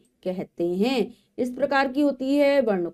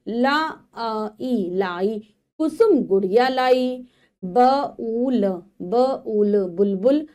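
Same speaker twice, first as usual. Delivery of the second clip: slow syllable blending, then the sentence; phonics reading aloud; slower than usual. Shown as a demonstration. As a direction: sound out each letter for young learners. Teacher sounds out words then reads sentences.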